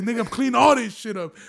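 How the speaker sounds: stern dad shout. Retold or imitated. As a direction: give the order like an angry father. Dad orders cleanup.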